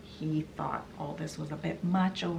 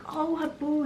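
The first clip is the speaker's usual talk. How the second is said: relieved whisper; 8 semitones higher than usual. Retold or imitated. Relieved greeting to the monkey.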